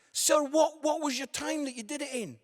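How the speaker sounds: loud, high call to the back row; heckling a man at the back, high and loud. Real, not acted. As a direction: shout the question across the room.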